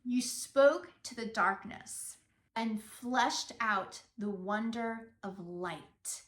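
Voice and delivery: slow, reflective reading of a lyric; passionate lyric reading. Shown as a demonstration. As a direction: speak the lyric slowly and meaningfully. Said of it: "sing this with the passion".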